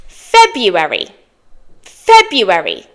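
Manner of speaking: February without the first r, FEB-yoo-erry; everyday pronunciation. Shown as a demonstration. Teacher models the final word, everyday pronunciation. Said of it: "But it's spelt February".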